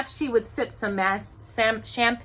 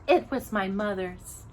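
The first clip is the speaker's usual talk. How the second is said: wistfully. Acted. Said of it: "she said wistfully".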